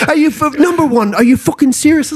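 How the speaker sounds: high, laughing mock fury; Shane storming in. Mate bursting in, yelling at him over the CEO joke, high laughing mock rage. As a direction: play the furious mate yelling through laughter. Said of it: "comes storming down".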